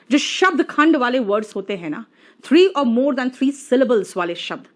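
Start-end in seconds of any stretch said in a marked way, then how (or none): 2.4-4.6 slow emphasis. Shown as a demonstration. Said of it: "teacher stressing rule".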